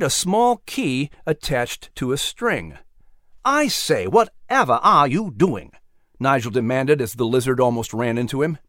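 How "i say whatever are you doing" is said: startled British gentleman. Acted. Nigel startled.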